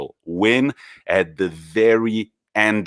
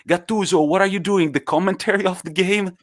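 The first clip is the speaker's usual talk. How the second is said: much higher, mock yell across the pitch; retold shout; 10 semitones higher than usual. Quagliarella teasing Gattuso across the pitch, high mock shout. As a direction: call out teasingly to the coach. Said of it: "he goes".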